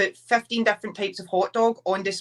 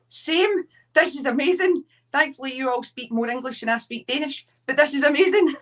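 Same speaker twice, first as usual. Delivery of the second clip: high-pitched excited reply; thrilled, lifted voice; delighted; 6 semitones higher than usual. Retold or imitated. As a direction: gush with mock-amazed delight, pitched up. Delighted reply in retold exchange.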